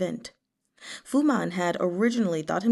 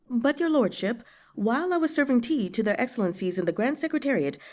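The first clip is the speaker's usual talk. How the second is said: Fu Man's voice; 4 semitones higher than usual. Acted. Fu Man voiced higher.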